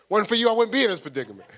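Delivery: high, loud, fast complaint; mock laboring mother. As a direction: blame him mid-labor, hammed up. Pregnant woman snaps at partner.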